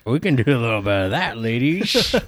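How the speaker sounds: jokey seducer with slushy s sounds; slurred, playful come-on to the ladies; mock sexy voice. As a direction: put on a hammed-up sexy radio voice. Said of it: "you wanted us to sound sexy".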